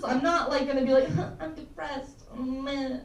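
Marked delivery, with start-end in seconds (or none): 1.1-3.0 mock moping. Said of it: "I'm not one of those".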